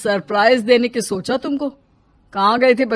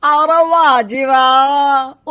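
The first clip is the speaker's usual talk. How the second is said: sarcastic scoff; 5 dB louder, much slower than usual. Acted. Mother-in-law sarcastic about money.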